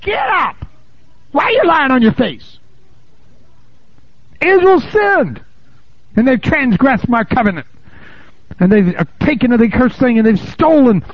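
high shouted divine command; God rebuking Joshua, shouting high. Acted. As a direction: thunder it down as God. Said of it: "And the Lord said to Joshua".

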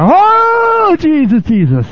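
high, loud hammed-up crooning; mock loud worship. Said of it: "You just sing a little louder".

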